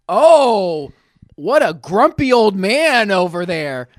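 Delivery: slow, drawn-out jibe; mock taunting. Gentleman getting into it with old man, mock taunting. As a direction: draw it out with a loud opening. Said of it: "is now getting into it".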